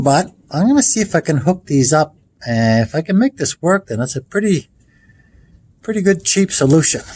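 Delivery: talking while lying under a car. Real, not acted. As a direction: speak lying on your back, working overhead. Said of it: "I'm under the car right now".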